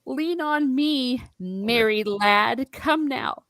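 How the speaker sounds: lightly acted helper easing a friend along; coaxing helper. Pippin helping wounded Mary walk, coaxing slowly. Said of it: "And he's like".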